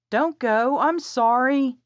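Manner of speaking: high, loud desperate plea; begging her boyfriend to stay, high and loud; pleading. A narrator's reading. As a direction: beg him not to leave. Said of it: "Ainsley had pleaded".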